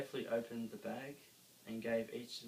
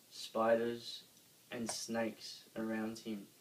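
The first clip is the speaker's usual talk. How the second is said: ordinary delivery, nothing marked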